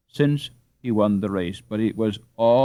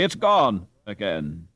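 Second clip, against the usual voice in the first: dismayed; slower than usual. Acted. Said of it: "with great dismay".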